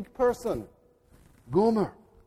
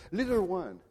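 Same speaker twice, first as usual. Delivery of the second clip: solemn baptismal charge; 3 semitones lower, 5 dB quieter than usual. Retold or imitated. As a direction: speak it like a blessing over a child. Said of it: "This is what we say every time".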